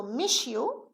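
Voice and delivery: "miss you" slowly, the s turned into sh, mish-you; linked demo. Shown as a demonstration. Teacher slowly showing students how miss you joins. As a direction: blend "miss you" into mishyou, taking your time. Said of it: "when we pronounce them together quickly".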